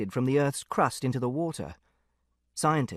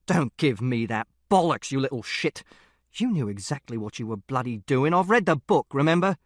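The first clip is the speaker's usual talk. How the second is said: angry father; 2 semitones lower than usual. Acted. Father berating son.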